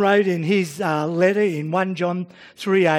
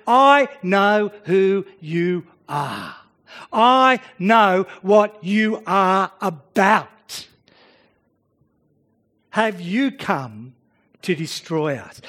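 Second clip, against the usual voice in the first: demon voice; 2 semitones lower, slower than usual. Acted. Preacher voicing the demon.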